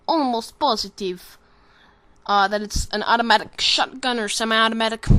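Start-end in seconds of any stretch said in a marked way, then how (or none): 0.1-1.4 slow, put-on Russian accent. Shown as a demonstration. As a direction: draw it out with a mock Russian accent. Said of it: "positive in a Russian accent".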